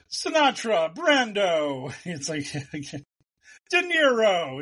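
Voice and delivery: high mock Italian names; fake foreign language. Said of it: "sound Italian by, you know, saying".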